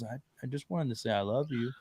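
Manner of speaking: soft son's voice. Retold or imitated. Dad softly echoing his son's loving words, hushed and tender. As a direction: say it gently, like a small child. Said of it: "he just looks at me and goes".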